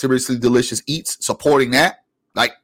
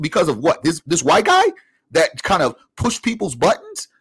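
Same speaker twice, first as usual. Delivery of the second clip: incredulous; 6 semitones higher than usual. Real, not acted. Incredulous rant at folks.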